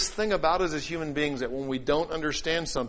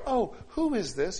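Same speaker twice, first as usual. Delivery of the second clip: pleasant curiosity; 5 semitones higher than usual. Acted. Answering an unknown caller without criticism, pleasantly curious. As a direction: draw it out lightly, pitched up. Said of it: "You don't do that".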